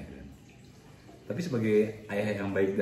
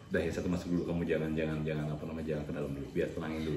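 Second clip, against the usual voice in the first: lower, softer reassurance; calm them down in a lowered, softened voice; retold calming advice; 5 semitones lower, 5 dB quieter than usual. Father tells couple to cool off at hotel, low calm tone.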